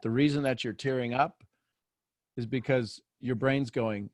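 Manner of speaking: usual speaking voice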